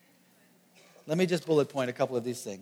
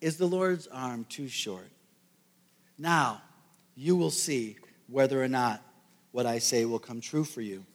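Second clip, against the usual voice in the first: God's reply; 4 semitones lower, 4 dB quieter than usual. Retold or imitated. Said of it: "And the Lord says".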